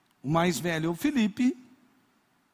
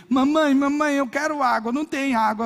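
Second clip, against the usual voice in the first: higher, mock baby voice; pretend baby; 7 semitones higher, 5 dB louder than usual. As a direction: beg mommy like a hungry baby. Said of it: "Eu falei". (neto pedindo mamar à mamãe, voz de bebê fingida)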